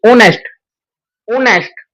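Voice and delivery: ऑनेस्ट starting straight on the vowel; silent h. Shown as a demonstration. Teacher showing the h is silent, word spoken separately. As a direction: say ऑनेस्ट with no h sound. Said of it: "ये मेरा silent होता है".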